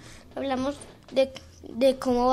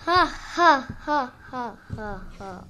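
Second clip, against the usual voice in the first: evil laugh; 3 semitones lower, slower than usual. Pretend.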